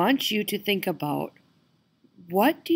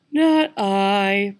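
purring cat; 4 dB louder than usual. Acted. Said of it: "purred the lazy orange cat".

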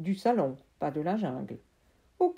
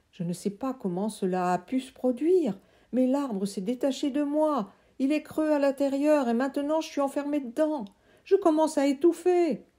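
put-on higher, loud boy's voice; trapped friend; 7 semitones higher, 4 dB louder than usual. Friend trapped in the tree urging Sam, high loud voice. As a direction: call out from inside the trunk.

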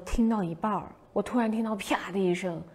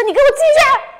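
high, loud furious yell; angry shout; 14 dB louder than usual. Retold or imitated. Scared girl yelling at the haunted house actor, furious shout. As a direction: bark the order like a scared kid hiding it with anger. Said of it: "然后我大喊".

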